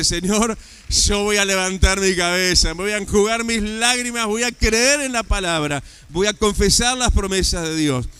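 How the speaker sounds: loud, proclaiming vow to God; loud declared prayer. Pretend. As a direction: shout the vow with conviction.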